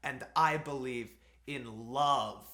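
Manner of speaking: mock earnest line. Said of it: "it's like".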